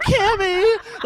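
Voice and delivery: high, loud wail of her name; retold calling out. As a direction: cry out to her, hammed up. Retelling calling out at Cammy.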